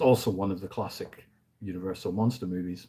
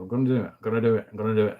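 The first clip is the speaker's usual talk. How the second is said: quick-fire repeated resolve; lightly mocked eagerness, very fast; retold eager resolve; 3 dB louder, much faster than usual. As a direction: rattle it off, mimicking your own keenness. Imitates own eager yearly resolve.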